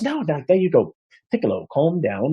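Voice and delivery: soothing bard. Acted. Bard soothing his monkey.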